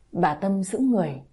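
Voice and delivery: ordinary delivery, nothing marked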